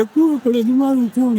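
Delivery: a hint of a fretting husband; worried husband.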